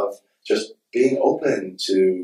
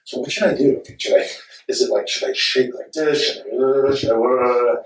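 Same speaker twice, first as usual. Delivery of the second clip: hesitant imitation, pitched up; lightly voiced sweet costar; 4 semitones higher than usual. Actor asking a director's son for advice, mildly imitated hesitance. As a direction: play an unsure actor asking for pointers. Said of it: "Milo's so sweet, and he's like".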